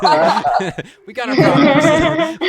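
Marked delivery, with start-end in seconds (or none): 0.9-2.5 slow, laughing, higher; a wry laughing aside about home. Real, not acted. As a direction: chuckle it out wryly. Jokes about his own country.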